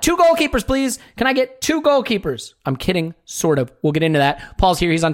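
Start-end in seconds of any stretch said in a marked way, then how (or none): 0.0-2.5 higher, mock-polite shop order. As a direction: play the club ordering goalkeepers like takeaway. Mocking Arsenal ordering goalkeepers.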